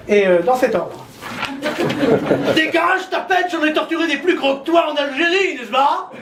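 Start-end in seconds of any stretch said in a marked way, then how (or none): 2.5-6.1 a hint of the old politician's bluster; lightly voiced old demagogue; Le Pen impression. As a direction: sneer it like a crusty nationalist. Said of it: "Le Pen".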